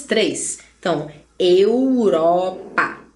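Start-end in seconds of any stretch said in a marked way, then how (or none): 1.4-3.0 EUROPA slowly as eu, ro, pa; split into syllables. Shown as a demonstration. Teacher counting three syllables, Europa split slowly. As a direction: break Europa into three drawn-out beats, eu, ro, pa. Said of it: "quantas sílabas".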